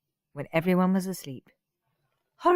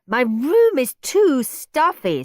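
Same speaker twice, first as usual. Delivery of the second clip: whiny Margaret; 7 semitones higher, 6 dB louder, slower than usual. Acted. Margaret keeps complaining.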